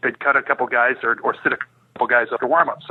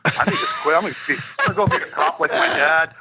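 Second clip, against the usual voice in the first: mock pout, pitched up at first; retold sulky griping, half laughing by the end; 2 semitones higher than usual. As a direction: play up a petulant little sulk. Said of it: "I'm just completely pouting".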